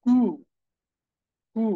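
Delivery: কু as pure "koo", no glide; German-style কু, long "oo"; German letter name কু. Shown as a demonstration. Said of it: "তারা বলে কু".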